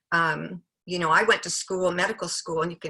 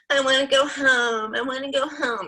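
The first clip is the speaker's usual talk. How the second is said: put-on whining child; 7 semitones higher, 5 dB louder than usual. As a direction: mimic a child whining to leave, higher. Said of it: "He's just whining".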